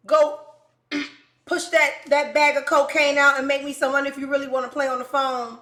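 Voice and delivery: loud, high, heated tirade; angry rant. Retold or imitated. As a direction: keep the fury up, scold him hard. Ranting at the inmate caller.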